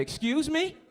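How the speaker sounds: high, loud disbelieving excuse me; incredulous excuse me. Retold or imitated. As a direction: act shocked, as if you misheard. Comedian acting out a confrontation.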